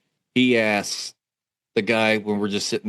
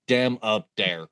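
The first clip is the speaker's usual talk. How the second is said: hillbilly drawl; slower than usual. Retold or imitated. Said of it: "statement still was burnt into the back of my head".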